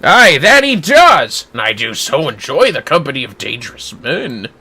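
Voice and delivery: swaggering warrior voice. Acted. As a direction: roll it out like a bold rogue. Voices Gilgamesh in game.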